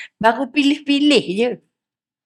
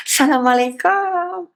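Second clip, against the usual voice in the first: cheerful greeting; 5 semitones higher, slower than usual. Shown as a demonstration. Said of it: "Ceria, go first".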